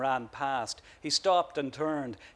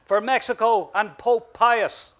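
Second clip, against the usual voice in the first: loud, high, slow rallying cry; yelled; 8 semitones higher, 8 dB louder than usual. A narrator's reading. The bogger rallies the troops with a slow, loud yelled cry. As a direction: stretch out the battle cry to rouse the men. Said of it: "he yelled".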